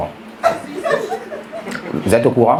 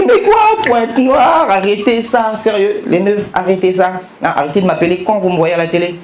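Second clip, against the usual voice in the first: exasperated scolding; 5 semitones higher than usual. Retold or imitated. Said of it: "J'ai dit".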